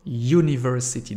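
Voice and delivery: "University" said yoo-niversity, clear y at the start; "University" starts on a y glide; y onset. Shown as a demonstration. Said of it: "c'est le Y".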